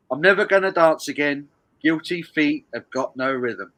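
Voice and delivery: put-on weak Geordie accent, sung-spoken lyrics. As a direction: read it like a lad from Newcastle. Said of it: "I'm doing it in a Geordie accent".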